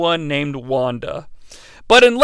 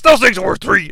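Hulk Hogan voice. Retold or imitated. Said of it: "that's the Hulk Hogan voice".

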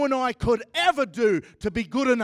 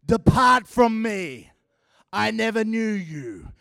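God's stern verdict; 5 dB louder than usual. Retold or imitated. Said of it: "You know what the alternative is?".

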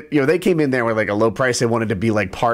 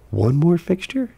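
incredulous; 7 semitones higher, 5 dB louder than usual. Retold or imitated. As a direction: drag it out in disbelief. Retold annoyed reaction to electrician.

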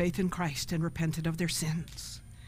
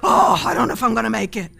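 weary complaining Christian; 7 dB louder than usual. Pretend. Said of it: "And they're like".

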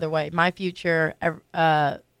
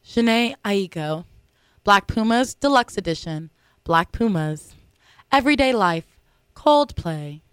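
slow, showy nominee announcement; award announcer voice; slower than usual. Acted. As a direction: read the nominees like an awards host. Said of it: "Should I use my award announcing voice again?".

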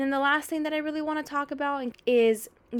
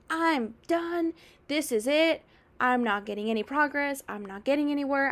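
higher, exasperated mock rant; fed-up outburst; 4 semitones higher than usual. Frustrated dieter quitting after the scale reading, higher fed-up rant. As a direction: throw up your hands, you're done.

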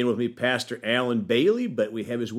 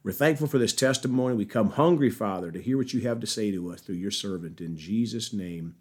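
prayer. Real, not acted. Host prays to the Father before testimony, prayerful. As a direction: pray aloud, settling gently into the amen.

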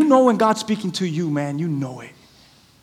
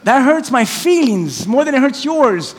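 higher-pitched hurt protest; emotional venting; 5 semitones higher, 3 dB louder than usual. Real, not acted. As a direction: let your grievance pour out, leaning on the words. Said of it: "I'm taking out my emotions".

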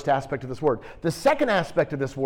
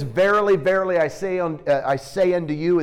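quoting Jesus; 3 semitones higher, 4 dB louder than usual. Retold or imitated. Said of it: "When he says".

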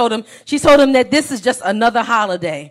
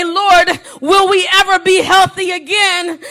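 raised, pleading cry to God; a desperate plea, pitched up; anguished cry; 5 semitones higher than usual. Pretend. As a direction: call out to the Lord in pain. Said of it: "And you say".

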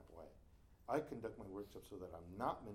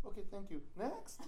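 loud, higher-pitched mock dismissal; higher, punched-up "next, please" manner; retold dismissive teacher; 9 semitones higher, 5 dB louder than usual. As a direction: imitate a teacher moving briskly on. Retold teacher curtly moving on.

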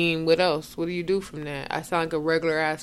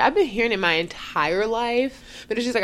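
ordinary delivery

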